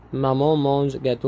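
slow exercise reading. Shown as a demonstration. Teacher reading an exercise sentence aloud to students, very slow. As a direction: read the exercise sentence very slowly and clearly. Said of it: "Complète avec un article partitif".

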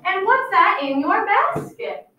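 drawn-out, sneaky wolf question; sly wolf voice. Acted.

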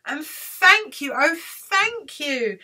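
slow, emphatic thanks; grateful cry. Acted. Witch thanks her rescuers, grateful cry. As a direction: draw out each thank you gratefully. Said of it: "the grateful witch cried".

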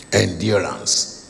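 "Endurance" drawn out slowly and low; slow emphasis. Shown as a demonstration. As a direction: linger on "Endurance". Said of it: "Jesus mentioned something about endurance".

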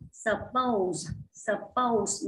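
"suppose" stressed on POSE; teacher's model "suppose", weight on POSE; second-syllable stress. Shown as a demonstration. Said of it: "nhấn âm hai ha".

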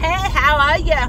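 put-on slow, careful try at an American accent; American accent, tentative; attempted American accent. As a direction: say it as an American would. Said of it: "let's hear your American accent".

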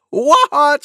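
high, loud two-note call; singsong cuckoo. A narrator's reading. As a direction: sing it out like a cuckoo. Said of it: "sang Cuckoo".

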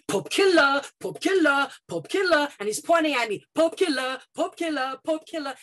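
a bully jeering and whipping up the class. Retold or imitated. Schoolboy yelling the taunt across class, loud high chant. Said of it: "as he gets louder and louder".

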